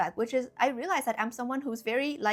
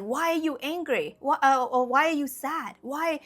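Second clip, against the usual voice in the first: higher-pitched mock reprimand; scolding parent; 4 semitones higher, 3 dB louder than usual. Parents questioning their child's negative emotions, mock scolding. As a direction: imitate a parent demanding an explanation.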